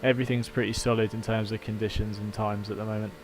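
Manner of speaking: lightly done radio race engineer update; calm team radio briefing to the driver. Pretend. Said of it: "Thanks for your Porsche race engineer impression".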